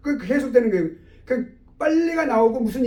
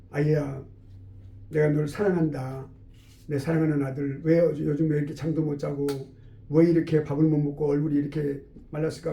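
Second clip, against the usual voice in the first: tender father; 5 semitones lower than usual. Acted. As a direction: gently coax a troubled son. Father tenderly questioning his son. (다정하게 달래는 아버지 목소리)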